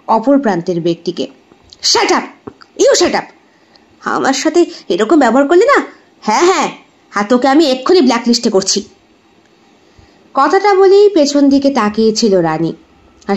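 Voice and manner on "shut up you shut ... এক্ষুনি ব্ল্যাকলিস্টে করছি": angry abuse on the phone. Acted. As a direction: snap at the caller, pitched up. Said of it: "গালাগাল দিচ্ছিল".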